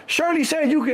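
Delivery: high-pitched disbelieving repeat; incredulous echo. Retold or imitated. Driver doubting passenger's claim, incredulous. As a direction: throw the claim back in disbelief.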